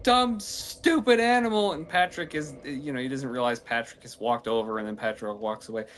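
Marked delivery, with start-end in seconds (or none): 0.0-1.7 high, loud cartoon yell; squeaky cartoon sponge telling someone off; SpongeBob yelling. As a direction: shout like an exasperated SpongeBob. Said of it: "SpongeBob is going".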